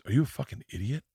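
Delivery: mock incredulous dressing-down; incredulous scolding. Dad retold scolding his son at the funeral, incredulous.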